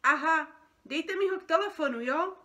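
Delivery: indignant complaint. Acted. Feathered creature complaining by phone about costumes, indignant and loud. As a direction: demand answers down the line, exasperated. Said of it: "Stěžoval si jiný opeřenec".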